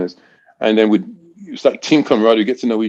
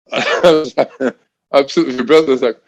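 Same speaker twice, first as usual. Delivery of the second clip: laughing while talking; 4 semitones higher than usual. Real, not acted. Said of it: "I'd lost my breath".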